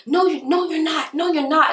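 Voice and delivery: very high, loud contradicting voice; mock denial. Imitating the buyer arguing back, high insistent denial. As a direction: imitate a squeaky, insistent refusal.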